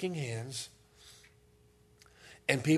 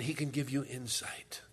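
whisper; 6 dB quieter than usual. Acted.

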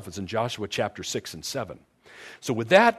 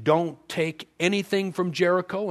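voice of God; 7 semitones higher than usual. Retold or imitated. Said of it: "God told the entire nation".

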